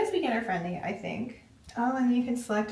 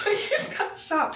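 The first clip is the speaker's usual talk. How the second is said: surprised; 11 semitones higher, 4 dB louder than usual. Real, not acted. A static shock just hit her.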